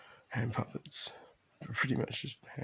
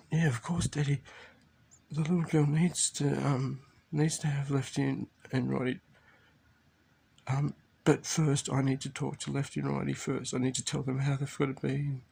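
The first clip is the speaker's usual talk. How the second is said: eager daughter; 3 semitones higher than usual. Retold or imitated. Father voices daughter's eager reply.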